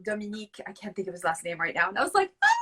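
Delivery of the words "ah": a little excited fan squeal. Retold or imitated. Squealing to show how starstruck she was. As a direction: squeal with delight at meeting him. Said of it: "I was just so excited".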